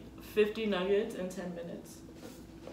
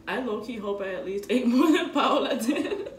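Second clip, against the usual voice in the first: laughing; 6 dB louder than usual. Real, not acted. Laughing during eating contest.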